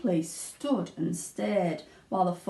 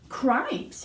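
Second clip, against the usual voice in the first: cried out; 4 semitones higher than usual. Acted. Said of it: "he cried".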